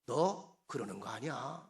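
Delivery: low, slow, mild scolding; a touch of wounded disappointment, drawn out slowly; slow, understated reproach to someone close; hurt reproach. Acted. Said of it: "보통 다른 사람한테 서운하면 그러지요".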